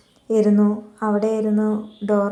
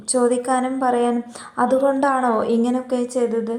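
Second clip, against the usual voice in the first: indignant confrontation; 3 semitones higher than usual. Retold or imitated. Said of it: "ദേഷ്യം വന്നു അവളെ കാട്ടിക്കൂട്ടൽ കണ്ടിട്ട്".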